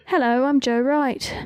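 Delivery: crisp English accent try-out. Shown as a demonstration. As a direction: test the name in an English accent. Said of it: "It just sounded right. I had to test it in the mouth".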